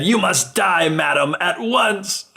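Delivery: lightly acted storybook villain passing sentence; mock villain decree. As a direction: pronounce doom with mock formality.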